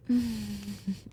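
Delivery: closed-mouth, self-satisfied chuckle. Acted. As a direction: chuckle as the victim gives in. Satisfied vampire.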